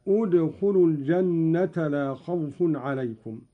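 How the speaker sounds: "ادخلوا" begun with a u, "udkhulu"; initial damma. Shown as a demonstration. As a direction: start "ادخلوا" on a clear u vowel. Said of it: "والبدء بالضم عندما نبتدئ كلمة ادخلوا".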